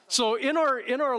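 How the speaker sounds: words spilling out through a real laugh. Real, not acted. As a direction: still laughing as he picks the point back up. Laughing after the rocking demo.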